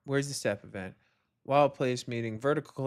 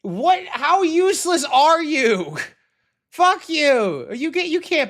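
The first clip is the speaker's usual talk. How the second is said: higher, louder, slowed scorn; exasperated rant; 8 semitones higher, 6 dB louder than usual. Real, not acted. Coder berating a useless commenter, loud and scornful. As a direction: scold him like he's right there.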